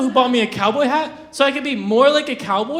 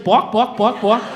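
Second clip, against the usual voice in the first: chicken bawk; 2 semitones lower, slower than usual. Retold or imitated. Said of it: "he was like".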